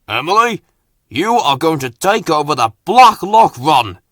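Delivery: hammed-up stern order; mild mock shout from the boss. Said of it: "he shouted".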